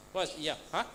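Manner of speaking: ordinary talk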